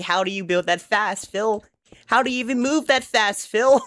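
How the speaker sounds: high, amazed and rising; excited. Retold or imitated. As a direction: marvel at how fast he builds. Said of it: "And I'm like".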